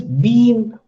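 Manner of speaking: "been" with a long, drawn-out ee; lengthened vowel. Shown as a demonstration. Teacher showing students long E, drawn-out "been". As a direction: hold the ee in "been". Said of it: "they show it is lengthening".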